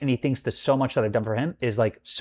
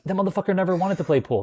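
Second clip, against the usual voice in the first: indignant retort; 6 semitones higher, faster than usual. Retold or imitated.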